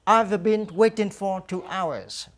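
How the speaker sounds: slow, careful English, repeated; slow drill model. Shown as a demonstration. Teacher repeats the answer slowly for students to echo. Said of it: "Now repeat after me".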